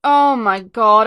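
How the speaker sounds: drawn out, awed oh my god; slow stunned gasp. Real, not acted. Fan sees the Dalek onscreen again, slow awed disbelief. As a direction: stretch it out in real shock.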